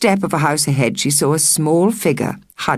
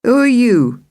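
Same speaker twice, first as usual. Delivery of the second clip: demanding; 8 semitones higher, 5 dB louder than usual. Acted. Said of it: "demanded Marlene".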